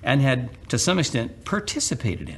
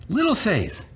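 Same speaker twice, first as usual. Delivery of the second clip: calling by nickname; 11 semitones higher than usual. Retold or imitated. Jesus addressing Peter by nickname.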